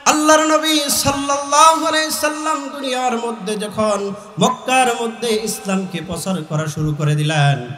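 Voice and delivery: ordinary talk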